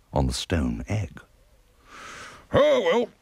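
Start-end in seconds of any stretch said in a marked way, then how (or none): 2.5-3.1 put-on old lady voice. Character line.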